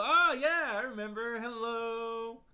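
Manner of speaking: squealy little daughter saying hello; daughter's voice. Pretend. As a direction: pipe up like an excited kid. Voicing his daughter's hello.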